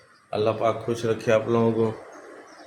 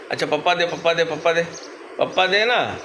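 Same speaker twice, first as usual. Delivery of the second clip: higher-pitched, repetitive coaxing; coaxing a pet; 4 semitones higher than usual. Real, not acted. Owner asking his parrot for a kiss, coaxing. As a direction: coax a pet bird with a lifted voice.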